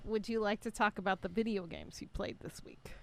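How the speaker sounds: breathy whispered question. Acted. Co-host whispering the question about video games. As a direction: whisper it like a secret.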